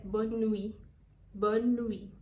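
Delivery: "bonne nuit" slowly, silent T, nasal-free nuit; French bonne nuit. Shown as a demonstration. Teacher models bonne nuit for bedtime, slow French pronunciation. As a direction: say it slow with the T dropped. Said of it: "quando você já vai dormir".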